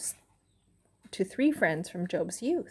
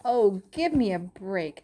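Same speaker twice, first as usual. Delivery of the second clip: mildly scornful friend blurting it out; a touch of exasperated scorn; 3 dB louder than usual. Acted. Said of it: "Eliphaz blurted out".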